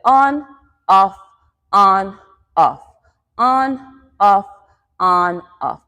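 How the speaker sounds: each word placed on its own beat; rhythmic step cues. Shown as a demonstration. Dance teacher cues the weight shift on and off, chanting in time. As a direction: call alternating beats, evenly spaced.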